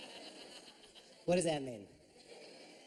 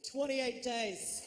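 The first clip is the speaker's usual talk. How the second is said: cowboy drawl; 5 semitones higher, much slower than usual. Retold or imitated. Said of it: "And he goes".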